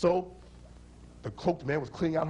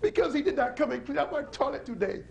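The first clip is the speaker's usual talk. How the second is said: wailing cry; 11 semitones higher than usual. Acted. Punchline again.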